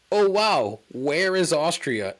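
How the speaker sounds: high, wide-eyed mock wonder; quoted Hoff. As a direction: ham up the Hoff's clueless amazement. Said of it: "is, quote".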